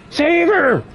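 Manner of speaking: very high, stretched-out mock plea; escalating mock panic. Killer begs for the dying victim, hammed-up panic. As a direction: draw it out in hammed-up alarm. Repeated plea, higher, drawn out.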